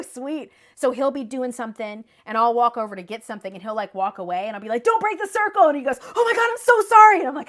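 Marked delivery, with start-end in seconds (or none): 4.8-5.7 high, loud mock command; mock stern warning. Warning her husband during a ritual, loud and high. 6.2-7.2 very high, loud flustered apology; panicked apology. Retold or imitated. Husband apologizing for breaking the circle, panicked and high.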